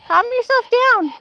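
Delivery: high-pitched, drawn-out scolding; real, high-voiced command to settle; scolding the dog. Real, not acted. Scolding the worked-up barking dog.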